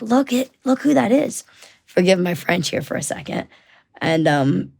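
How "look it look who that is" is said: high-pitched imitation of a mom talking to her child; mom to little girl. Mom showing little girl who is there, high-voiced. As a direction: lilt it high, pointing someone out to a toddler. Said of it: "the mom goes over to the little girl".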